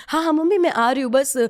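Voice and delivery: a bright put-on phone voice, covering her fear; fake phone chat. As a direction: hurry through it like a casual call home. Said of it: "झूठ मूठ का बोल रही हूँ".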